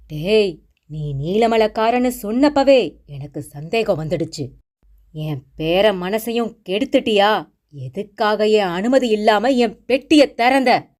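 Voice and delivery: mild mock shout at the guest; angry scolding. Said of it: "பாட்டி கத்தினாள்". (கோபமான திட்டல், லேசாக உயர்ந்த குரல்)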